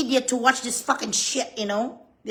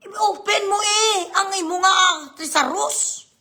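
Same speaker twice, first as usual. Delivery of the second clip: higher, louder ranting at the questioner; exasperated outburst; 6 semitones higher, 3 dB louder than usual. Real, not acted. Vlogger scolding the senator to just google it, exasperated. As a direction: scold him like he's hopeless.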